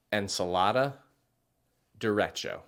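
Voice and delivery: "ensalada, derecho" with English vowels and hard d; anglicized Spanish. Shown as a demonstration. Teacher showing the wrong anglicized way. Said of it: "Versus saying it as".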